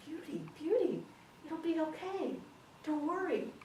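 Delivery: high-pitched, smoothly assured husband; confident reassurance. Acted. Husband soothing his sobbing wife, confidently reassuring. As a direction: reassure her in a lifted, unworried voice. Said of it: "he stood up really confident".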